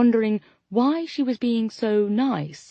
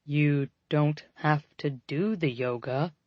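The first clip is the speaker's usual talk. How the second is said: confused; 4 semitones lower, 3 dB quieter than usual. A narrator's reading.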